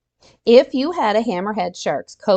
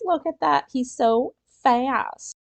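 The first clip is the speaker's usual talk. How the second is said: excited; 6 semitones higher, slower than usual. Real, not acted. Excited at shark picture.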